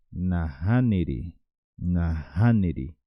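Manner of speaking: slow "Naha niri", rising on "ha", then falling; model pronunciation. Shown as a demonstration. Teacher repeating Guaraní no for learners, slow "Naha niri". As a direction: stretch "Naha niri" slowly as one word. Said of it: "No en guaraní decimos".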